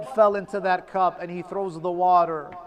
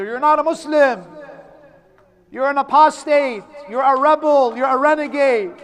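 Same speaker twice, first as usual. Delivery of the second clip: hostile denunciation; 4 semitones higher, 4 dB louder than usual. Retold or imitated. Executioners denounce Muslim.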